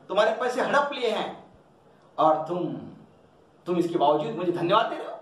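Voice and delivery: almost yell it at her in disbelief; near shouting. Acted. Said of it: "ऊंचे स्वर में लगभग चिल्लाते हुए कहते".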